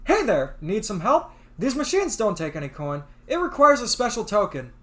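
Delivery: friendly, upbeat service-counter voice; customer service voice. Acted. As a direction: greet the customer brightly. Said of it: "my standard customer service voice".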